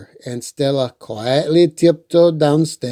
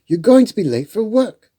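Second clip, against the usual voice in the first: mom voice; 7 semitones higher, faster than usual. A narrator's reading. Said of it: "Sophia's mom said".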